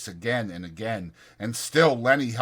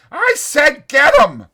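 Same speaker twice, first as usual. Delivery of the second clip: slow, very high, loud; insistent yell; 13 dB louder than usual. Acted. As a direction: hammer the order home. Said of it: "George yelled again".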